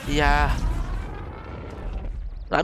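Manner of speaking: usual speaking voice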